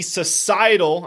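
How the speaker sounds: societal leaned on, slow and deliberate; host stresses societal to describe Mo. Real, not acted. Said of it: "emphasis on the word societal".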